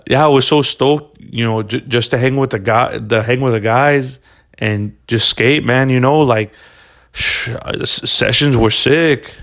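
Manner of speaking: put-on second go at a Brazilian accent with surfer-dude phrasing; hesitant mock Brazilian skater, stumbling over words; attempted Brazilian skater accent. Podcaster retrying his impression of Brazilian skateboarders, attempted accent. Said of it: "I'm gonna try to".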